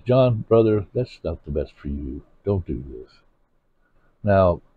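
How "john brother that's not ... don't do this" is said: soft, low brotherly warning; gentle rebuke. Retold or imitated. To a brother heading to dirty places, soft low rebuke. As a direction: ease into it, no edge. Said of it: "I'm just gonna say it like this".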